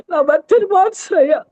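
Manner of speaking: tearful begging, voice catching; crying plea. Retold or imitated. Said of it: "అంటే నేను ఏడ్చేది".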